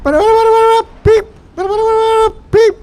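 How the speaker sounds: very high gibberish tirade with beeps; mock screaming fit, rapid babble between beeps; Morozumi ranting. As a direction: rant wildly from the back kitchen. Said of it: "I can hear him back there".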